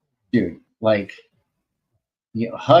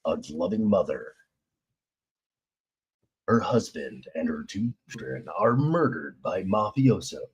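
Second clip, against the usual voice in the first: movie voice. Acted. Promoting his comic in a mild trailer voice. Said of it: "in the movie voice".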